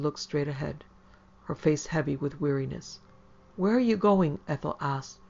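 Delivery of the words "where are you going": higher, louder anxious question; rising voice. A narrator's reading. Woman asking strangers in her back seat, rising. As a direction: let the voice climb. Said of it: "her voice rising".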